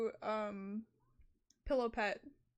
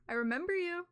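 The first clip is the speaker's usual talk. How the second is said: raised, louder creepy delivery; 5 semitones higher, 3 dB louder, faster than usual. Shown as a demonstration. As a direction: say it like a looming threat. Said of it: "Sounds terrifying".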